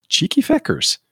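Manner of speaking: high mock Irish accent; imitating the Irish housekeeper. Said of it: "Irish accent".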